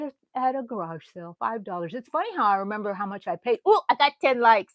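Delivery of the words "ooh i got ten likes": happy surprise. Real, not acted. Reacting to live likes.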